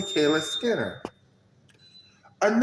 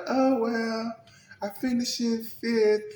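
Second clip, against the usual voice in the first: mock dismissive quote; 7 semitones higher, slower than usual. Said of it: "You was like".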